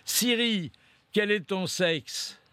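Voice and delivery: high call, then a slow careful question; talking to Siri. Real, not acted. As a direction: ask the phone slowly and clearly. Addressing voice assistant Siri.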